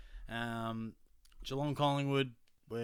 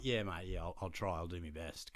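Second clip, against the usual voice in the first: dry retold smart-arse answer, sinking away; smart-ass reply; 4 semitones lower, 3 dB quieter than usual. Fan answering the bloke whose seat he kicked, smart-ass. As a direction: toss it off like a smart aleck. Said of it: "a bit of a smart ass answer".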